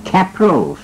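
Capros drawn out slowly, rising at the end; English name. Shown as a demonstration. Host sounding out the original English name, slow. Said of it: "เป็นภาษาอังกฤษ".

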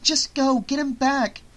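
high, exasperated insistence; frantic high-pitched command; urgent order. Acted. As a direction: push him to go right away. Jess orders Eric to chase.

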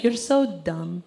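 slow, deadpan put-down; unhurried mock disdain; judgmental mom. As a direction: imitate a mother judging, words drawn out. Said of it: "the judgmental one".

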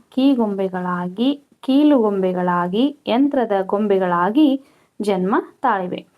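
slow, measured textbook reading; dictation read-out. Real, not acted. Teacher reading questions and answers to pupils, measured dictation. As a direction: read it out phrase by phrase for pupils to copy.

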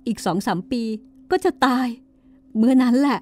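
weep through the words, rising into bitter defiance; crying harder. Acted. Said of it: "ก็ยิ่งร้องไห้หนักขึ้นไปอีก".

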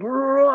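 mock roar. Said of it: "I was just like".

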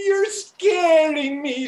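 slow scared cry; frightened. Acted. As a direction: plead in fear. Brother terrified by twin.

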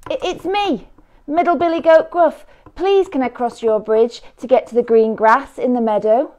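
high, stammering plea; high nervous goat voice. A narrator's reading. Middle goat asking the troll to cross, high and nervous. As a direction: ask politely, trying not to tremble.

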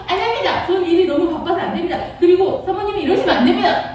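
high, quick earnest refusal; firm refusal. Acted. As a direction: turn her down in a hurry. Joseph refuses the wife's advances. (다급하고 단호한 거절)

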